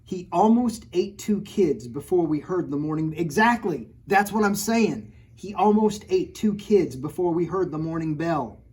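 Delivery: alarmed read-aloud. Acted. Teacher reading the shocking line to the class. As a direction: read it like breaking news.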